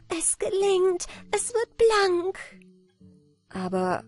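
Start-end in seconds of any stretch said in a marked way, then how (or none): 0.1-2.4 high, rejoicing exclamation; jubilant cry. A narrator's reading. Anna Barbara sees the stain fading, jubilant cry. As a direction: cry out in high-pitched triumph. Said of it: "jubelnd rief sie".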